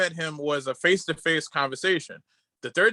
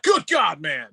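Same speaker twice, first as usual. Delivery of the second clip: mock surprise; 4 dB louder, slower than usual. Cena exaggerates surprise at photo.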